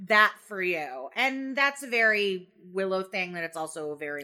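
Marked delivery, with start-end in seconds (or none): 0.1-1.1 firm acted refusal. Voicing Willow refusing to be a keeper, firm. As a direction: spell it out to a friend, mildly exasperated.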